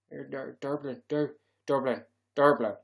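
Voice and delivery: groping for a Dublin accent on "Dublin"; Dublin accent attempt. Shown as a demonstration. Streamer practising the word Dublin, uncertain Dublin accent. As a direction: fumble toward a Dublin accent. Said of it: "how do you do a Dublin accent".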